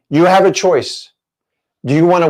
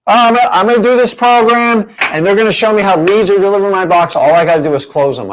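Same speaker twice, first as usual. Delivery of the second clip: higher, louder dreamy voice of a gullible buyer; student bragging about a leads program, higher and louder; mock naive student; 5 semitones higher, 3 dB louder, faster than usual. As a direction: sell yourself the easy dream, eagerly.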